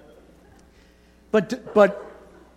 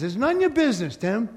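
"none ya business" lifted higher, a light New York God voice; God voicing it; 3 semitones higher than usual. God telling Tim to mind his own business, higher and light. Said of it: "So God says".

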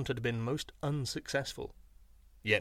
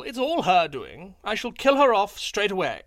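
sly yippy jackal; 6 semitones higher, 8 dB louder than usual. A narrator's reading. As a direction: threaten the wife for show. Jackal fakes rage at wife.

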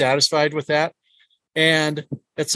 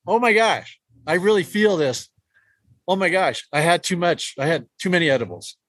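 overwhelmed; 3 semitones higher than usual. Retold or imitated. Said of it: "you get to the point where it's like".

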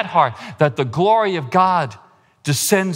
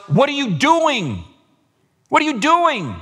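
God calling us; 10 semitones higher than usual. Acted. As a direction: repeat the question like God searching your heart. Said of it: "hear God say to us".

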